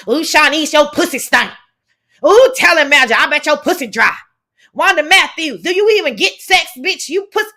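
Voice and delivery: lightly hammed-up heckling of imagined women; mock call-out. Host mimics crude talk on every link, mock taunting.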